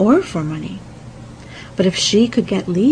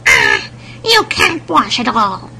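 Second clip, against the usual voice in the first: troll hag; 3 semitones higher, 4 dB louder than usual. A narrator's reading. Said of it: "said the old troll hag".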